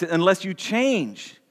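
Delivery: slow, leaning hard on "change"; stress on change. Shown as a demonstration. Draw out "change" and let it land with a falling tune. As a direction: pastor stressing "change" for the congregation, slow and weighty. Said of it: "I see that one emphasized".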